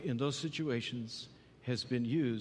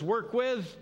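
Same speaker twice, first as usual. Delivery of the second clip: enthusiastic; 6 semitones higher, 3 dB louder, slower than usual. Shown as a demonstration. Pastor quoting Ephesians with zeal.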